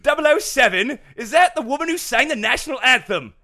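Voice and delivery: high, loud cackling voice on a video phone. A narrator's reading. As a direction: cackle the question gleefully.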